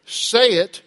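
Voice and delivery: loud, slow, word-by-word parental order; parent instructing child. Acted. Parent telling children how to apologize, slow emphatic order. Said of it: "We are telling our children".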